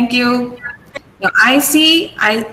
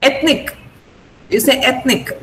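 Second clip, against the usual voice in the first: ethnic with the opening vowel stressed; stress on first syllable. Shown as a demonstration. Teacher models ethnic for student, stress up front. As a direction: lean on ETH in ethnic. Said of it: "The stress is on A".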